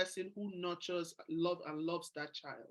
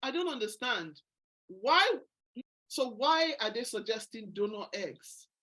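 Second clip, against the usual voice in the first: upset disbelief; 3 semitones higher, 5 dB louder than usual. Retold or imitated. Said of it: "I said".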